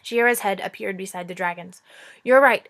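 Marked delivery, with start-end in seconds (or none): 2.2-2.7 put-on girl voice. Shiera's voice.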